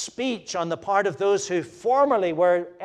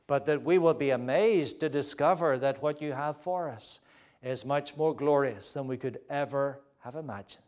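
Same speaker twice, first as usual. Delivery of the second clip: closing prayer. Real, not acted. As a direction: speak gently to God for the room.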